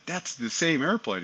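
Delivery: lightly voiced wonder of a child spotting something; excited kid. Son telling dad on the flight line, mildly excited.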